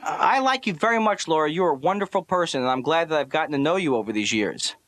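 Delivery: determinedly upbeat compliment. Acted. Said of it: "trying to practice being upbeat".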